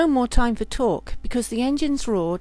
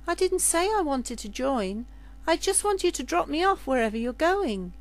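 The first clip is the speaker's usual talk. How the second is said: put-on higher, earnest girl's voice; serving girl; 5 semitones higher, 3 dB quieter than usual. Serving girl correcting the captain, higher and earnest. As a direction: insist softly she only wants a ride. Lydia explains her request.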